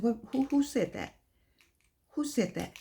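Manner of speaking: hushed, wondering question; intrigued surprise. Acted. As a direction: softly act out being caught by a voice. Acting someone caught by a voice.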